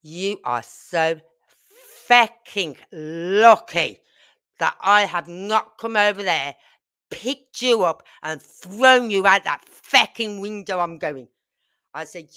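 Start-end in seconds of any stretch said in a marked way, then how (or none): 0.0-11.3 retold angry threat. Confronting drunk father, retold.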